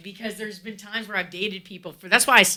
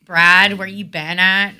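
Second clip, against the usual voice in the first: louder, silly put-on voice; stupid fake voice; 8 dB louder, slower than usual. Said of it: "I'm doing that stupid voice".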